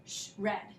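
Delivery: "shred" broken into sh and red; split blend. Shown as a demonstration. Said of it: "We don't say, like".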